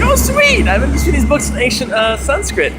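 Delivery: very high, loud, thrilled oh sweet; delighted squeal. Retold or imitated. Telling the Vedanta teacher about the books, squealing with delight. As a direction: burst out with joy.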